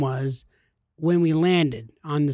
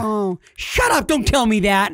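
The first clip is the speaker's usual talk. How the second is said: mock annoyed; 6 semitones higher, 5 dB louder than usual. Mock annoyed reply to daughter.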